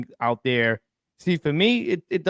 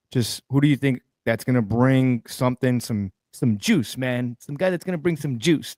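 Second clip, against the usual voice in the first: a hint of a hyped football coach asking who brings the juice; John Gruden impression. Host quizzing his guest, lightly imitating John Gruden. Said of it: "That's my best John Gruden accent".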